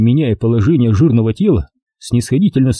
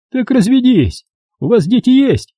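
high, smug official voice; pompous bureaucrat talking down; notary's voice; 12 semitones higher than usual. A narrator's reading. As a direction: play the fat notary, condescending and self-important.

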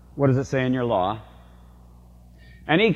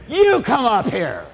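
higher, slow commanding call; retold command; 8 semitones higher than usual. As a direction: order her up to the stage. Speaker summons heckler to stage.

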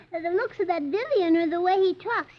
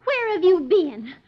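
louder, slow scold; scolding wife; 4 dB louder, slower than usual. Acted. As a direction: drag out the reproach. Blondie scolding late husband.

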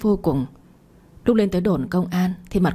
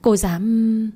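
shout; 4 semitones higher than usual. A narrator's reading. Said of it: "mà hét ầm lên".

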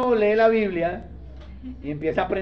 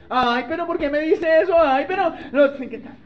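higher, put-on whine of a disappointed girl; whiny lovesick girl; 7 semitones higher than usual. Preacher imitates a lovesick girl hearing no, higher whine. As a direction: complain as if the advice hurt.

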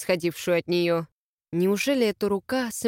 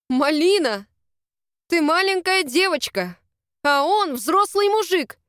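higher, louder exasperated rebuke; outraged scolding; 8 semitones higher, 4 dB louder than usual. Acted. Big sister scolds the ten-year-old, outraged and louder. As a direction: drive it home, slowing at the end.

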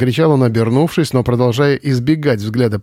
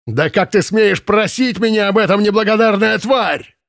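much higher roaring fury; bellowing in rage; 9 semitones higher than usual. Acted. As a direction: roar at the ungrateful girl. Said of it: "заорал комендант". (комендант орёт на девушку в ярости)

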